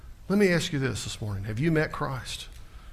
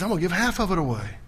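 voicing Zacchaeus; 9 semitones higher, 7 dB louder than usual. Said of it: "He said".

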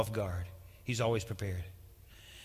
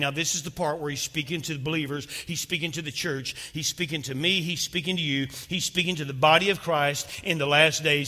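building preaching; 4 semitones higher, 6 dB louder than usual. Acted. Rising preached repetition.

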